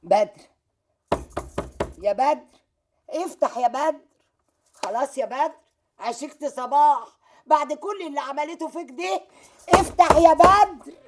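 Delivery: loud, rising pleading that ends in a shout. Acted. Mother shouting at her son's locked door to open.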